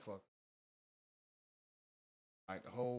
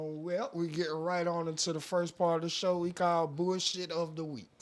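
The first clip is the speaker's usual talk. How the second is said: higher, drawn host announcement; segment announcement; 5 semitones higher, 4 dB louder than usual. Acted. Host moving into the show's first part, announcing.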